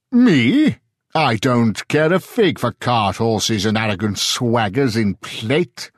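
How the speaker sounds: booming scholar holding forth in a tavern; lightly voiced pompous Englishman; loud declaration. A narrator's reading. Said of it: "he declared to anyone who would listen".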